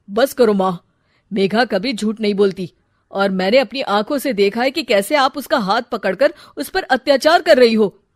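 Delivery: loud, firm rebuke; angry son. Acted. Son confronting mother.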